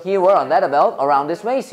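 speed-practice reading, words linked without pauses; quick drill. Shown as a demonstration. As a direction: run the whole sentence together briskly. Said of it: "그림 보고 빨리 말해봐". (끊지 않고 빠르게 말하기)

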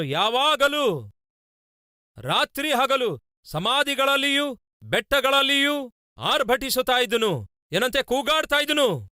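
high-pitched scripture proclamation; dramatic sermon reading, pitched high; impassioned preaching. Real, not acted. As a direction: proclaim the verse in a high, ringing preacher's cry.

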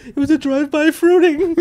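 words squeezed out through laughter, pitched high; cracking up mid-joke; laughing. Real, not acted.

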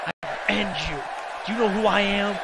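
understated tough-guy trash talk; trash-talking rival promo. Acted. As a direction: growl threats at the rival. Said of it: "What does he have to say?".

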